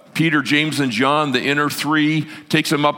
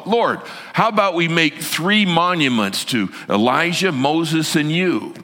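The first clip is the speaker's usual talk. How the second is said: lightly voiced nervous disciple, pitched higher; nervous chatterer; 5 semitones higher than usual. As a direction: pitch an eager idea to cover mild nerves. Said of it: "when he's nervous has to say something".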